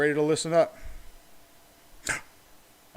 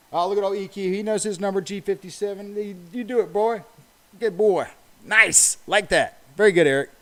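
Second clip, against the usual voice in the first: excited praise; 5 semitones higher, 6 dB louder than usual. Real, not acted. Cheering a viewer who knew number.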